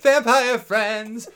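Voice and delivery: high, loud and very slow, savoring each word; excited pitch. Acted. Cohost gleefully naming the show she wants, slow excited announcement. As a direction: announce it like a thrilling new show title.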